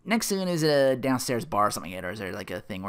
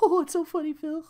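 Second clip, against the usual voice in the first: much higher, mock-amused sarcasm; sarcastic Larry; 4 dB louder than usual. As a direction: throw the joke back flatly amused. Larry mocking Phil's joke.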